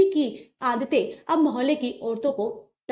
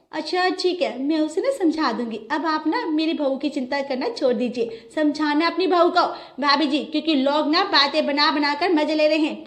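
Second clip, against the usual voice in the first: higher, slightly louder curt reply; irked mother-in-law; 5 semitones higher, 3 dB louder than usual. Acted. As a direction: brush the neighbour off, a bit stung. Kamla answers neighbour curtly.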